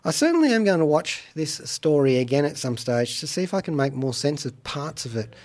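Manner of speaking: ordinary delivery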